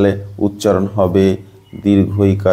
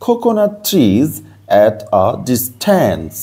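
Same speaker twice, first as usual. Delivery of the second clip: slow reading aloud; much slower than usual. Shown as a demonstration. Teacher reading the English text to students, slow and clear. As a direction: read it out word by word for the class.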